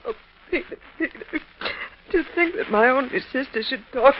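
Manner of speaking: whispered, wounded plea; hurt wife whispers to husband. Acted. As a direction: breathe his name in hurt. Sister hurt after quarrel.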